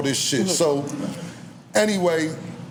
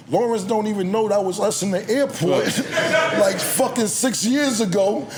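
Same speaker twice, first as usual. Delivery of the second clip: laughing mock shout; 5 semitones higher than usual. Retold shouting retort, laughing.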